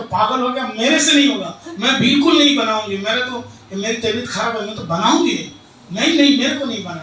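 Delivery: loud, fast quarrelsome refusal; angry refusal. Acted. Wife refusing husband in staged fight, loud and fast.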